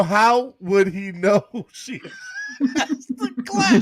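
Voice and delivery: words squeezed out through laughter; laughing helplessly mid-question. Real, not acted. Laughing while relaying a question.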